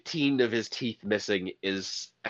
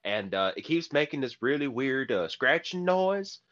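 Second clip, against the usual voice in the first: put-on Southern accent. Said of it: "deep Southern accents".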